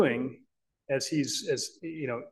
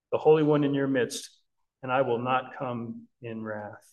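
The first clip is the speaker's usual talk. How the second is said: impassioned scripture reading; 3 dB louder than usual. Acted. Preacher reading God's heartbroken lament to the congregation, impassioned. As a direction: plead God's lament aloud.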